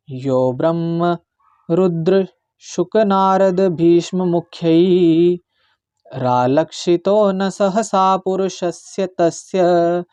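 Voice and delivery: slow, careful Sanskrit verse recitation; measured shloka recitation. Shown as a demonstration. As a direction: chant each syllable slowly and clearly. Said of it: "इसका मैं उच्चारण सिखाऊंगा आपको".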